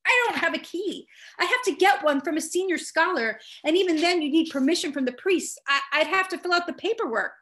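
high, flustered squeak; squeaky voice. A narrator's reading. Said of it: "My voice squeaked".

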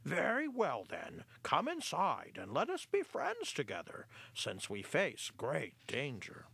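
put-on an old mouse leader welcoming the enemies aloud; loud clear voice. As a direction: declare it clearly to the hall. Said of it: "in a loud, clear voice said".

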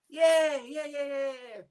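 high, breezy yeah-yeahs to wave it away; brushing it off. Retold or imitated. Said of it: "Just brushed it off like that".

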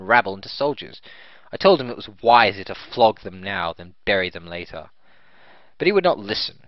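stern disciplinarian knight; proud, strict officer; haughty noble voice. Acted. Noble tells his story.

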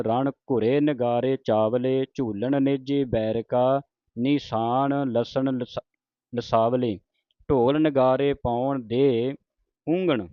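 slow, measured verse reading; scripture recitation. Shown as a demonstration. Teacher recites verse to students, slow measured recitation. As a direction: stretch the line endings, reciting deliberately.

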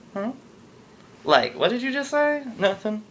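put-on girlfriend's high disgusted question; offended girlfriend. Girlfriend reacts again.

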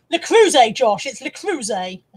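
Le Creuset said as luh kruh-ZAY, loud at first; correcting Josh: Le Creuset as luh kruh-ZAY; correct French pronunciation. Shown as a demonstration. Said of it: "correcting Josh's pronunciation".

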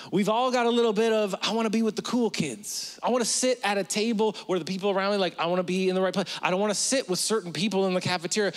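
put-on high, fast, anxious teen voice; insecure teen. Preacher playing a nervous teen at the cafeteria. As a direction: rattle off like a worried high schooler.

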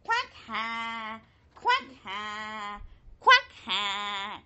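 low quacking laugh; laughing duck. Acted. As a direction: ducks chuckling awake. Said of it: "woke up with a laugh".

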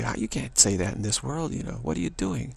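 mock-shocked, pitch jumping on the final question; shocked self-rebuke. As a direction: take yourself to task in mild disbelief. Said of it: "I'm shocked by what I'm saying".

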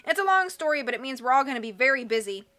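loud bossy henchman voice. Acted. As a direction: boss them around loudly. Hook-handed man bossing freaks.

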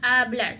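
hablar begun on the vowel, "ablar"; silent H. Shown as a demonstration. Teacher insists on this form alone, hablar without H. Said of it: "Solo hablar".

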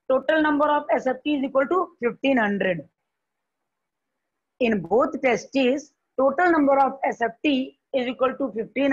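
slow, measured dictation pace. Shown as a demonstration. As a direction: read it out for notes. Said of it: "slow dictation of totals". (धीरे धीरे लिखवाना)

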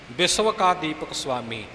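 ਬਿਸਵ ending in a clear v, ਸੁਆਮੀ with a half ਸੁ; v sound in ਬਿਸਵ. Shown as a demonstration. Teacher shows ਬਿਸਵ with v and a half ਸੁ in ਸੁਆਮੀ. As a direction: say the ਵ in ਬਿਸਵ as v, not as a. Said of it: "ਇਹ ਵੱਵੇ ਦਾ ਹੀ ਉਚਾਰਨ ਇੱਥੇ ਹੋਵੇਗਾ".

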